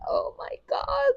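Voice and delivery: very high-pitched mock squeal; overwhelmed amazement. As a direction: relive disbelief in a tiny high voice. Acts out her amazement at birth.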